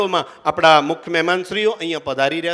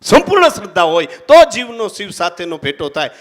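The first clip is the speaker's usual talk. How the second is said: emphatic repeat; 6 dB louder than usual. Shown as a demonstration.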